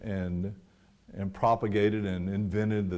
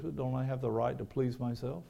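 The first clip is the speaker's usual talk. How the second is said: whiny voice; 4 semitones higher, 6 dB quieter than usual. Retold or imitated. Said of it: "in a whiny voice".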